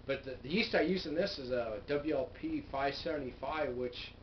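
speaking through resting fingers; talking with fingers on lips. Real, not acted. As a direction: hand partly covering mouth. Seen 2: Fingers pressed on lips throughout speech, gone by 5.7 s.

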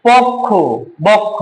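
পক্ষ and বক্ষ said as pokkho and bokkho; closed o in পক্ষ, বক্ষ; teacher models পক্ষ and বক্ষ with ওকার; o sound demo. Shown as a demonstration. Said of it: "ওকার দিয়ে উচ্চারণ করবো".

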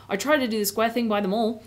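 lightly voiced Cockney cabbie; mild Cockney, a humble working man; Cockney accent. Cabbie answering Aslan about ruling, light Cockney accent. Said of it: "the Cockney accent is what I've been doing".

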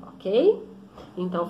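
usual speaking voice

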